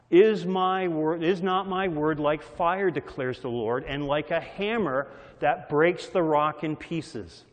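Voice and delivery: preaching the verse with force; emphatic scripture reading. Acted. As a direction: proclaim it like thunder. Scripture recited again, louder.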